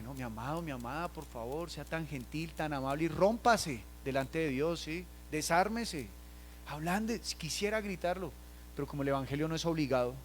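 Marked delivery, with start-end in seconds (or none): 0.1-7.2 gentle pleading. Retold or imitated. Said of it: "acá uno utiliza un lenguaje".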